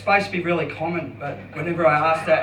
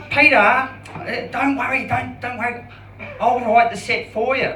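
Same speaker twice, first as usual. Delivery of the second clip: higher, lilting camp voice, drawn out; stereotypical gay voice; 5 semitones higher than usual. Pretend. Hypnotherapist reassuring Peter, hammed-up camp voice. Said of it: "I'll just do a stereotypical gay one".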